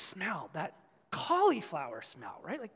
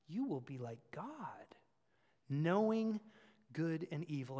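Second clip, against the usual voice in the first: tempting whisper; 4 semitones lower, 4 dB quieter than usual. Acted. Tempter's lure voiced in sermon.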